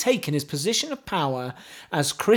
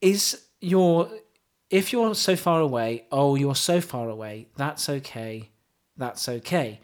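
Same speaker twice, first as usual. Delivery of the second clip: mock poetry recital. Host reciting pop lyrics to co-host, mock solemn.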